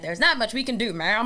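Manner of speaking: a hint of an old-timey cop; lightly voiced weary old-timey officer; 1930s beat cop. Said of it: "great old-timey cop voice".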